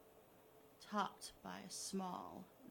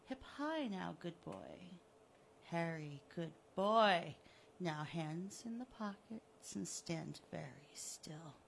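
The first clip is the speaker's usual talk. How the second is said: lightly voiced smug killer, low and mocking; gloating villain; 3 semitones lower, slower than usual. Killer taunting the buried Harry, smug and mocking. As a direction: taunt him like a cat with a mouse.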